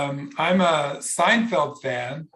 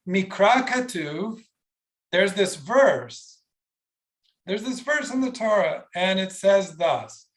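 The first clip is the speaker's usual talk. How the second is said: gentle, respectful; 2 semitones higher than usual. Shown as a demonstration. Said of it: "That is a better way to say it".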